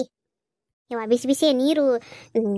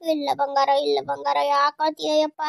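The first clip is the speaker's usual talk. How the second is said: tender, crooned endearments; soothing baby talk. Acted. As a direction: comfort a crying baby in an even croon. (ಮಗುವನ್ನು ಮುದ್ದಿನಿಂದ ಸಂತೈಸುತ್ತಾ)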